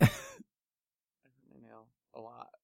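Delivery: slow, whiny pained voice; fake pained voice. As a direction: act hurt, drawn out. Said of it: "is this a skit?".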